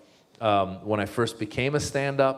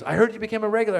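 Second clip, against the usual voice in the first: booker voice; 11 semitones higher, much faster than usual. Retold or imitated. Booker's voice retold.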